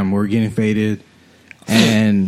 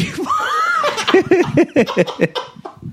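helpless high laugh; high laughing shriek. Real, not acted. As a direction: laugh till it cracks high. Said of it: "had me laughing".

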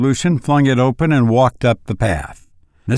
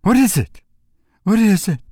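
high, anxious rush of questions; worried mother in a higher voice; breathless alarm; 5 semitones higher, faster than usual. A narrator's reading. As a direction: press for news, voice climbing sharply. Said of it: "she asked breathlessly".

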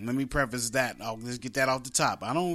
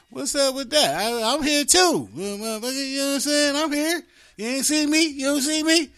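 high, louder, hammed-up aggrieved dad; indignant dad; 11 semitones higher, 6 dB louder than usual. Host voicing fathers who feel ignored, mock outraged. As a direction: play a father demanding to be noticed. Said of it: "dads be like".

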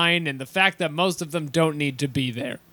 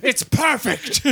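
slow awed reverence; 6 semitones higher, slower than usual. Retold or imitated.

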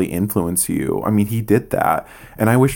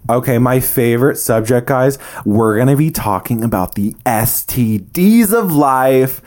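playful hype; 3 semitones higher, 3 dB louder than usual. Pretend. Host introducing a favorite racy subject, hammed-up hype. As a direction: ham up the topic, then leap high at the end.

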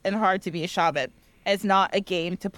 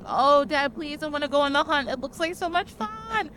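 put-on higher, eager kid begging Dad; eager son; 5 semitones higher than usual. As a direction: pester Dad like an excited teen.

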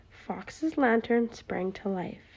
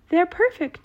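high, loud happy cheer; 8 semitones higher, 8 dB louder than usual. A narrator's reading. Mole with fixed glasses, loud cheer. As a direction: cheer it out with joy. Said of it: "cheered Mole".

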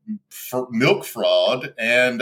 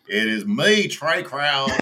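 put-on failed Trey accent; 3 semitones higher, slower than usual. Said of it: "that I can't even do".

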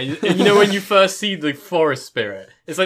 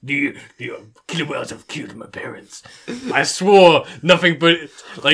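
mock anime inner monologue. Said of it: "internal dialogues".

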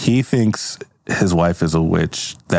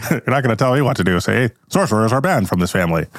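laughing gangster voice; 3 semitones higher, faster than usual. Retold or imitated. Repeats gangster line laughing.

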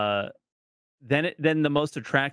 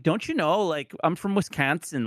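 higher, mock Wisconsin accent; Midwestern accent; 5 semitones higher than usual. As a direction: put on a guessed American Midwestern accent. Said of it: "no idea what that sounds like".

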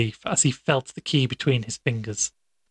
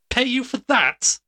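incredulous cry; 12 semitones higher than usual. Acted. Fetz, aghast at being paid, cries out in disbelief. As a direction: shoot way up in disbelief.

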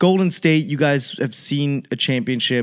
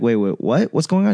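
surprised; 3 dB louder than usual. Retold or imitated. Shocked reaction retold.

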